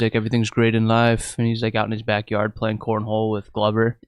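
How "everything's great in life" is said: deadpan. Retold or imitated. Fighter playing cornhole claims all is great, deadpan. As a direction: imitate a stone-faced monotone. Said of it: "he's just stone faced".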